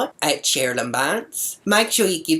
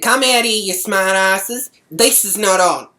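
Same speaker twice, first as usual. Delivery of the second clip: raised, louder indignant call; acted angry challenge; 4 semitones higher, 5 dB louder than usual. Calls out hidden egg throwers.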